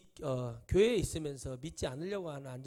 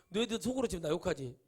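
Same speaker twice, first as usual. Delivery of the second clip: scolding senior; 4 semitones higher, 7 dB louder than usual. Retold or imitated. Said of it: "욕한다고 제가 그렇게 말을 해요".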